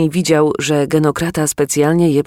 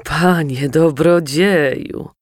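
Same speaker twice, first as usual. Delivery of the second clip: sobbing plea; slower than usual. Acted. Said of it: "załkał".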